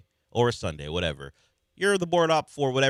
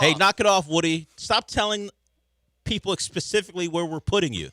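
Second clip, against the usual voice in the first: high, loud scolding shout; stern warning; 10 semitones higher, 5 dB louder than usual. Retold or imitated. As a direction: scold him like a staffer. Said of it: "Like that same guy".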